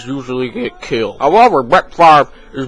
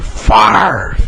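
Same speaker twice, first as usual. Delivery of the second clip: high cheering yell; cheering shout; 6 semitones higher than usual. Acted. Fan cheering for the quarterback, a high yell. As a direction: cheer his name up high.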